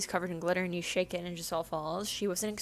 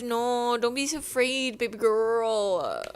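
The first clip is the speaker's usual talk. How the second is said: mock reassurance; 2 semitones higher, 4 dB louder than usual. Mocking his attempt at reassurance.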